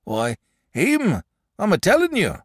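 a shepherd spinning a spooky tale by the fire; old shepherd. Acted. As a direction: tell it like a wary old country shepherd. Shepherd voiced in read story.

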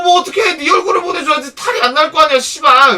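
loud, high exasperated retort with a curse; angry scolding. Retold or imitated. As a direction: re-enact the boss telling off the host. Madam snaps back at host. (크고 높게 욕 섞어 혼내기)

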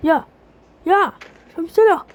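urgent call. Acted. Shaking a fainted ally.

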